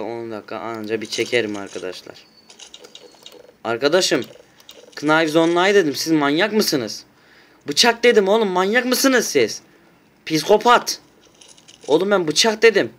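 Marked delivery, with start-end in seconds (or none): 3.6-12.9 higher, louder outraged scolding; yelling at bots who brought guns to a knife round; exasperated yelling. Real, not acted. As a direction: shout at the teammates in disbelief. Bots ignored knives-only order, yelling.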